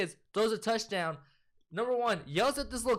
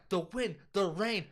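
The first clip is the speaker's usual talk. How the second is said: drawn-out mock stage acting; theatrical acting; 2 semitones higher, slower than usual. Tommy acting out a scene for his friend, hammed-up and drawn out. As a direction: stretch each word like a hammy actor. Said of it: "as they were acting, he was like".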